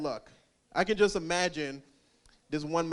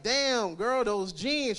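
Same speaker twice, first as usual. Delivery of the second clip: flirty compliment; 4 semitones higher, much slower than usual. Retold or imitated. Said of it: "I be like".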